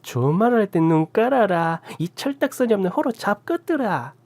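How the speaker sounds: put-on an old aunt unleashing a torrent of curses; Gyeongsang cursing tirade. A narrator's reading. Aunt bursting into the room, cursing in Gyeongsang dialect. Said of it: "쌍욕을 경상도 사투리로 찰지게 쏟아붓자".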